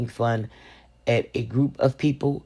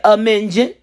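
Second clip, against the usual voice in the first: put-on toddler voice; 7 semitones higher, 6 dB louder than usual. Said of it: "He said".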